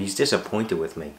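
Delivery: "He's disappointed with me" said in a lightly mock-worried tone, close to his own voice; half-hearted pretend worry. Vlogger mocking imagined upset over an email, mild mock worry. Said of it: "You, you think that I went".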